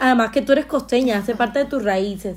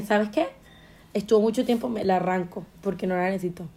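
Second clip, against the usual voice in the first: quiet resolve; 3 semitones lower, 6 dB quieter than usual. Retold or imitated. Quoting her own resolve.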